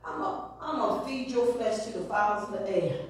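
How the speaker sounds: low, soft laughing threat; Goliath threat. Acted. Goliath threatens David, low and laughing. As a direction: laugh at him, then threaten. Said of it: "He was like".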